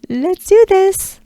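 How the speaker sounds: high, bright laugh into let's do this; cheerful laugh; laughing pep. Real, not acted. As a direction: laugh and rally them. Laughing enthusiastic cue.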